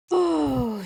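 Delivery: moon voice. Pretend. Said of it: "rambling moon".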